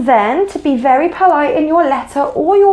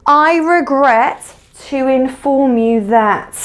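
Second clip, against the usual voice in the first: slow demo phrase. Shown as a demonstration. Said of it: "You might say".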